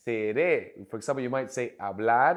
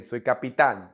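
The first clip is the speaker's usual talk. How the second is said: "Soy capitán" with stress on the final tán; accented final syllable; 4 dB louder than usual. Shown as a demonstration. Teacher pointing out the accent, "capitán" stressed on tán. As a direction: push the last syllable of "capitán". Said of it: "you can see the accent again".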